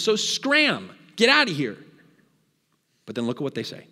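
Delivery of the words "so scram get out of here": raised, higher-pitched brush-off; dismissive. Acted. Pilate sending the accusers away, dismissive. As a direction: shoo them away impatiently.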